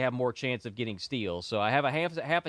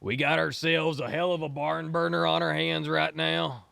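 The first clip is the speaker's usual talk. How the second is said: put-on a booming, higher old-time announcer; 5 semitones higher, 4 dB louder than usual. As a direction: sell the big match like a carnival barker. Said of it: "I could do other voices for you".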